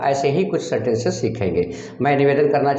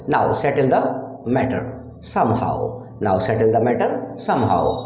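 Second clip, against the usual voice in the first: 1 slow demo; 3 semitones lower, much slower than usual. Shown as a demonstration. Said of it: "teacher demonstrates English sentence".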